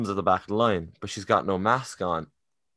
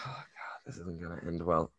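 whisper; 3 semitones lower, 10 dB quieter than usual. Retold or imitated. Whispered aside during the argument.

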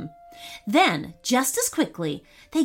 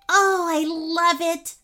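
delighted; 8 semitones higher, slower than usual. Acted. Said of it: "said Sadie".

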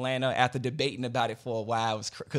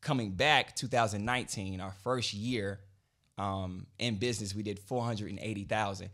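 deliberately slow; 3 semitones lower than usual. Shown as a demonstration. Guest repeating first-year earnings on request, slow and deliberate. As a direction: lay out each fact slowly, with pauses. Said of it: "but say it slow".

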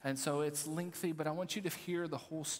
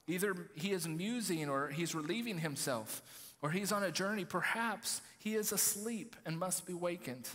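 mocking; 3 semitones higher than usual. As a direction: needle them with mild sarcasm. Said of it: "Elijah mocked them".

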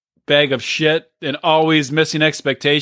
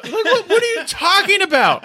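mock incredulous shout; 13 semitones higher than usual. Podcast host mocks Brandon's excuse in a high laughing shout. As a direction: shout it through a laugh, mocking him.

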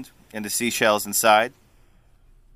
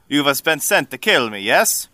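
Vodachi man; 4 dB louder than usual. Acted. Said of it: "the man from Vodachi".

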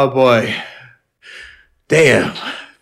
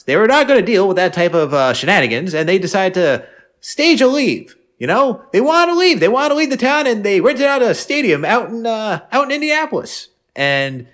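lightly voiced old-timer telling a tale, pitched higher; old-timer impression; 3 semitones higher than usual. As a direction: spin the yarn like a grandpa, a hint of a hammed-up accent. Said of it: "That was a perfect accent. I love that impression".

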